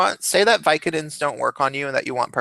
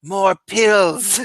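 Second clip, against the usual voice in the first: higher, whiny patient voice; patient pleading with the nurse for more pills; pained patient; 4 semitones higher, much slower than usual. Retold or imitated. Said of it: "he's like".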